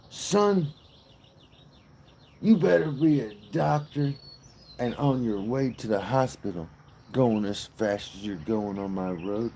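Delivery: lightly voiced agitated lawman scolding a speeder; agitated Southern patrolman. Pulled-over speeder scolded by a Southern patrolman, mildly agitated. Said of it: "In this very agitated, pompous-looking Southern highway patrolman".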